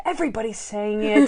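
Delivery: imitated retort, rising at the end; Monk's tone of voice. Co-host imitates Monk answering his dinner date, defensive retort. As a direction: defend yourself, lifting the last word. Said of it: "he uses that tone of voice".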